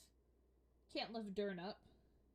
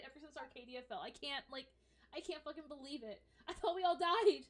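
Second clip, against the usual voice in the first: high, loud, gushing excitement; ecstatic Thea; 3 semitones higher, 7 dB louder than usual. Acted. Thea overjoyed at meeting another wood elf, loud and high. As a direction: burst out with joy and swearing.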